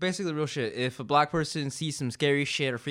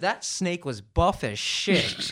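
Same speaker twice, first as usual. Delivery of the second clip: stunned disbelief; 2 semitones higher, 4 dB louder, slower than usual. Real, not acted. Shocked at the buff snake.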